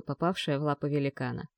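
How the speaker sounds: ordinary talk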